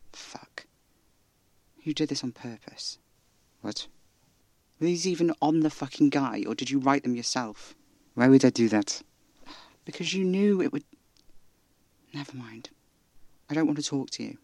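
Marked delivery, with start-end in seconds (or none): 0.1-0.7 whispered curse; whispering. Acted. Realization in drama. 12.1-12.7 resigned whisper. Acted. Giving up mid-argument.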